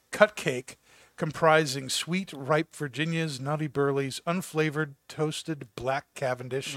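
measured catalog read-aloud; product description read. Acted. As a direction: read it like a tobacco ad. Reads tobacco product description.

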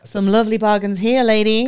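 hammed-up market seller calling; lightly voiced stallholder pitch; market tannoy voice. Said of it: "the woman on the microphone".

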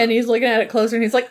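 ordinary delivery

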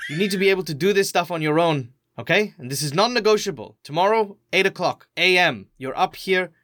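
a touch of stern motherly urgency; lightly voiced firm carer. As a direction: lay down the law to a kid. Carer lays down the law.

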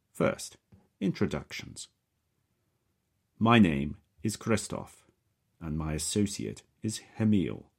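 name yourselves with careful precision; precise Slavic accent. Acted. Captor introducing himself to the prisoner, precise Slavic accent. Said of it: "pronounced very precisely".

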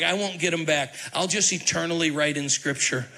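playful gloat with a laugh at the end; mock gloating Moses. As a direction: tease like a petty author getting even. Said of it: "He's like".

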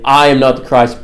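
"I" leads and carries the weight of the line; stress on I. Retold or imitated. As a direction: put the emphasis on "I", the rest lighter. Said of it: "this puts the emphasis on I".

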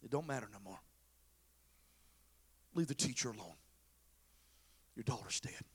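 low, very soft and grave; grave news. Acted. Messenger tells Jairus his daughter is dead, hushed. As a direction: drop right down to break bad news.

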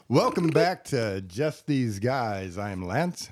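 slow, smooth lounge lizard host. Acted. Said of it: "there I go with the lounge suit lizard voice again".

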